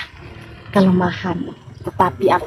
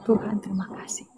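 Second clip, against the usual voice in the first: long sigh, then very soft thanks; hushed, patient thanks to God; sighed prayer; 2 semitones lower, 15 dB quieter, faster than usual. Acted. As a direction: breathe out the troubles, pray almost in a whisper. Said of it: "kalau saya memiliki sebuah masalah".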